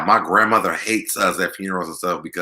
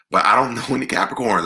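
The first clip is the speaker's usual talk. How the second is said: laughing; 5 semitones higher, faster than usual. Real, not acted. Laughs mid-line.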